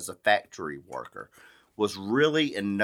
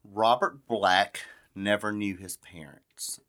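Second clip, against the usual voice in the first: slow ominous opening. Acted. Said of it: "dramatic true crime opening".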